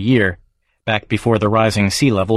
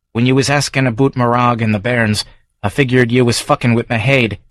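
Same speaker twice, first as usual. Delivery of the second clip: Scots publican's regular, raised and brisk; gruff Edinburgh local sizing up a stranger; Davy's Scots brogue; Scottish barfly. Acted. Davy defends himself.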